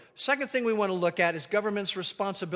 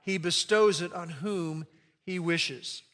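recited aloud; 3 semitones lower than usual. Shown as a demonstration. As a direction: say the verse with the congregation. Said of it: "here we go again".

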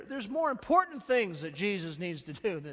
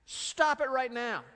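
slow shouted command, louder; irate rebuke; 5 semitones higher, 7 dB louder, much slower than usual. Retold or imitated. Jesus rebuking the disciples, slow shout. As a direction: stop them hard, every word weighed. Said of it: "it's really saying this".

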